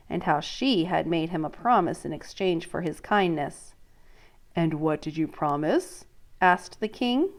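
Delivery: reading a picture book to a class; storybook read-aloud voice; story narration. Acted. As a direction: tell it clearly for young listeners. Teacher reads story aloud.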